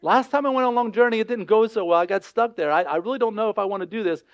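reluctant, mildly anxious protest; mildly afraid. Acted. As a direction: voice a hesitant man objecting. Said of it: "he's afraid".

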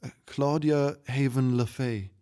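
put-on unsure child before royalty; hesitant child. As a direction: give the name timidly. Child answers a king's order.

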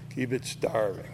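quiet repeat. Shown as a demonstration. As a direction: let "Keep it starving" sink into a soft low echo.

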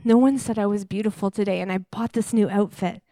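mopey, sighing lament; lightly acted sad monologue; dejected skit. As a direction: act out feeling rejected, sighing. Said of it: "a little quick visual skit".

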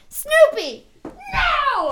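high mock yell at a dog; imitating a dog park owner scolding their dog. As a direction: yell the dog's name, then scold it. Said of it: "people at the dog park that are like".

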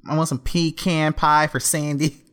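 a hint of SpongeBob; lightly voiced cartoon sponge. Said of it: "that's how he says pecan".

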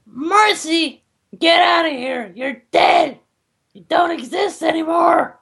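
put-on angry kid shout. Kid shouts at dead character.

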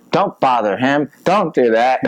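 high, slow scolding German-free mimic of the girlfriend; mimicking ex-girlfriend. To the driver, ex-girlfriend scolds him in high mock voice. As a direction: pitch it way up like a nagging passenger. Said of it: "And then she's like".

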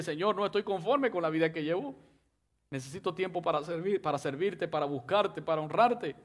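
earnest prayer spoken to God; modeled prayer. Shown as a demonstration. Preacher modeling a prayer for the congregation, earnest and humble. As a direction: pray it humbly, as your own words.

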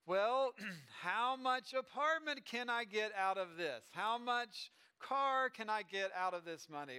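slow, stretched-out acted questions; eager spender. Adult with a new paycheck, slowly eager. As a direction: draw out each purchase, playing a grasping adult.

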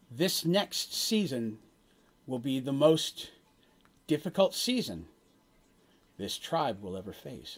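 slow, portentous prophecy with long pauses; solemn prophet. Acted. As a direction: deliver a grave omen, phrase by phrase. Game master voices the prophet's prophecy.

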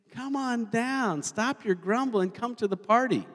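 slow, high, coaxing invitation; inviting call. Acted. Jesus calling grumblers to the party, slow coaxing call. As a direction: draw it out high, beckoning them in.

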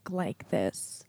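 very slow, drawn-out imitation, softening at the end; Richard. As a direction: stretch every word out, mimicking a slow talker. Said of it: "like, really slow".

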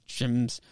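soft "James" with the vowel squashed, like "Jimz"; garbled speech. Retold or imitated. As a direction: slur "James" as if unable to form words. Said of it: "he can't really, like, formulate real words".

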